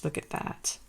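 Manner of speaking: breathy whispered aside of wonder; hushed, almost to herself; awed whisper. Real, not acted. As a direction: whisper it like you can't believe how pretty it is. Awed at a gorgeous bead strand.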